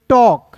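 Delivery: टॉक with a silent L; demonstrated pronunciation. Shown as a demonstration. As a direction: say टॉक as "tawk", no L sound. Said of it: "इसे पढ़ेंगे".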